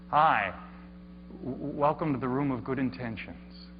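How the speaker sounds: a lightly voiced, overly smooth hostess; slick polite hostess. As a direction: welcome him with a hint of too-polite slickness. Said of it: "in kind of a slick, smooth, almost too polite voice".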